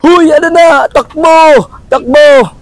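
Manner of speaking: shouting encouragement. Real, not acted. Urging runner on.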